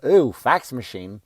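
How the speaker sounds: mock ooh. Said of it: "they'll go".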